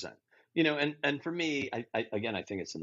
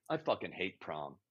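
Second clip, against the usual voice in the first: low, soft grumble; muttered misery; 10 semitones lower, 11 dB quieter than usual. Acted. Imagined prom-goer admitting the truth, muttered low. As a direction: confide it under your breath, sullenly. Real prom talk against gushing line.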